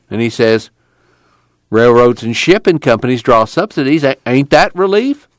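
lightly voiced Okie arguer, questions pitched high; argumentative little guy. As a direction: argue back, rising high on each question.

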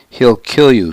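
a mild sneer; lightly scornful warning. Acted. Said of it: "Senwal sneered".

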